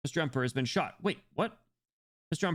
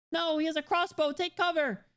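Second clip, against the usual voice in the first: high, urgent warning; alarmed shout. Acted. A bystander spotting the crossbow, high urgent warning. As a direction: yell at them to get down.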